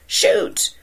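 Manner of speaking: high hoarse holler. A narrator's reading. Son hollering from the boat to the boy on the ledge. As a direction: holler across the water. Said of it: "his son hollered".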